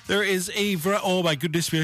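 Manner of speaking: yawning. Real, not acted. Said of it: "I'm yawning".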